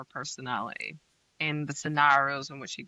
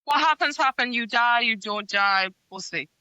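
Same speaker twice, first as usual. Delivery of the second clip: mock careless; 5 semitones higher, 3 dB louder than usual. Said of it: "It's just like".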